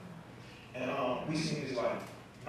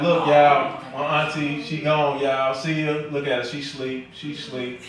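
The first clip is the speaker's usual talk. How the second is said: loud livestream announcer voice; mock livestream hype; 2 semitones lower, 8 dB louder, slower than usual. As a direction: broadcast to followers at the funeral. Brother on Facebook Live at funeral.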